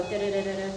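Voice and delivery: quick beeping da-da sounds; device beeping imitation. Shown as a demonstration. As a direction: mimic a meter beeping fast. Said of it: "it's supposed to go".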